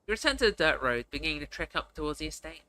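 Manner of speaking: measured storyteller reading; story narration. Acted. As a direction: narrate the scene evenly, unhurried. Reads the game's narration aloud.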